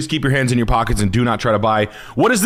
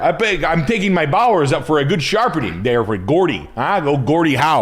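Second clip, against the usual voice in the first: hammed-up Montreal accent; put-on Montreal accent, cheering for the home team; 2 semitones higher than usual. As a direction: play a Montreal hockey fan, accent and all. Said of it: "That's a really good Montreal accent".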